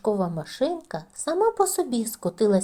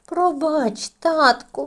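squeaky apology; 6 semitones higher, 4 dB louder, much slower than usual. A narrator's reading. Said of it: "пискнуло мишеня".

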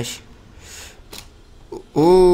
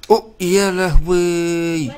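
stretched alarm; 3 semitones higher, much slower than usual. Real, not acted. Player almost falling in the parkour map, slow startled cry. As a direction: drag out the dismay.

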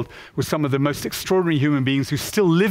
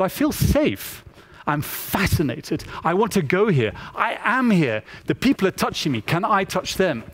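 put-on fascinated child; 3 semitones higher than usual. Child's wonder, acted by the speaker.

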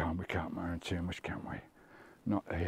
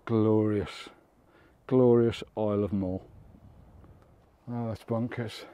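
out of breath; 6 dB louder than usual. Real, not acted. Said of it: "Oh, I'm out of breath".

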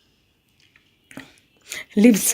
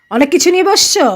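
coaxing high voice; 5 semitones higher than usual. Real, not acted. Mother coaxing child on camera.

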